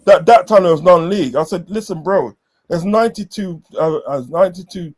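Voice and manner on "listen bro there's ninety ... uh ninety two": higher-pitched, exasperated explaining; exasperated lecturing. Retold or imitated. Fan retelling how he schooled a non-league supporter, exasperated. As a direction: spell it out for a clueless rival.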